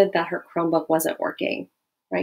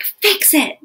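mild fighting tone; 10 semitones higher than usual. Shown as a demonstration. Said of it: "in a fighting tone of voice".

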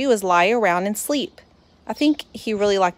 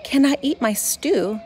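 polite ask; 6 semitones higher than usual. Acted. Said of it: "I asked politely".

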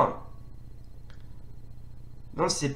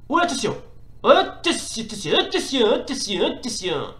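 high repeated warnings, easing down; jittery, higher-pitched watch-out; alarmed warnings; 4 semitones higher than usual. Real, not acted. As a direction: chant a nervous warning under attack. Rapid warnings during attack.

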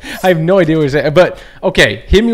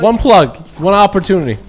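rapper style; 6 semitones higher, 4 dB louder than usual. Pretend. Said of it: "Are we talking rapper style right now".

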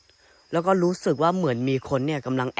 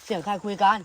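higher, louder call into the trees; 7 semitones higher, 6 dB louder than usual. Real, not acted. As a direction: shout the question toward the voices. Calling out to unseen voices. (ตะโกนถามเสียงสูง)

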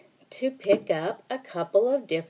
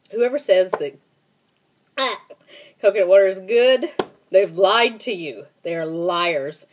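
emphatic indignation; 5 dB louder than usual. Real, not acted. Denouncing coconut water fans.

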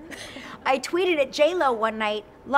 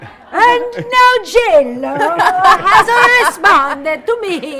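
loud, slow mock Italian accent, higher; over-the-top excited Italian accent; 7 semitones higher, 14 dB louder, much slower than usual. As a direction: crow it in a hammed-up Italian accent. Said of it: "I'm talking with an Italian accent".

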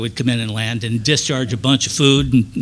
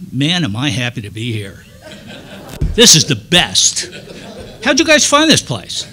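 laughing happy greeting; 3 dB louder than usual. Retold or imitated. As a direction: laugh through an over-the-top hello to strangers. Miming joy to villagers, no language.

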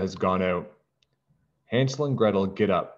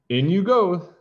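higher and louder, pushing hard; forceful shove; 10 semitones higher, 6 dB louder than usual. Acted. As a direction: shout it as you shove. Gretel pushes witch into fire.

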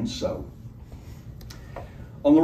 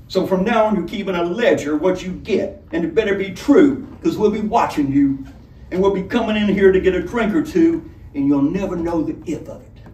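menacing robber; 5 semitones higher than usual. A narrator's reading. Robber threatening the tavern keeper, menacing. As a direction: lay out the terms like a bandit boss.

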